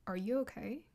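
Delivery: soft, caring check-in; lightly voiced gentle concern; a hint of a gentle man asking if you're okay. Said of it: "he uses that gentle voice".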